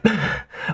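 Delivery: dry clearing of the throat. A narrator's reading. Groggy spy clearing his dry throat. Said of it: "parched dryness of his throat".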